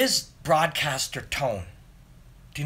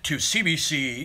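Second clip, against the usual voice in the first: newscaster voice. Retold or imitated. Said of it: "There's also newscaster voice".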